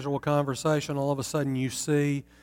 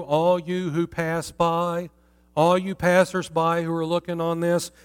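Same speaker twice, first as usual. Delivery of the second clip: pleading lament. Acted. The abandoned city cries to passers-by, pleading lament. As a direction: plead with the crowd for notice. Reads Lady Zion's lament.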